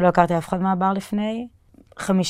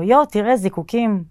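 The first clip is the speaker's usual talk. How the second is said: high, loud delighted "יו, תראה"; retold excited call to a customer; excited exclaim; 4 semitones higher, 4 dB louder than usual. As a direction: point out the fireworks with delight. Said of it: "ואמרתי לו".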